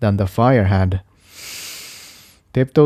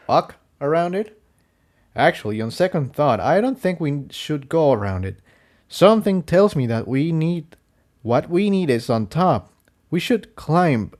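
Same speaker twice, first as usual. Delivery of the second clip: softer, higher, oddly sure voice; a pony speaking as if guided; strangely certain; 6 semitones higher, 3 dB quieter than usual. A narrator's reading. Jigsaw after a strange trance.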